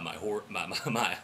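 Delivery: hoarse from yelling all game; worn-out voice after a day of shouting; low, spent, hoarse delivery. Real, not acted. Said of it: "I got a hoarse voice".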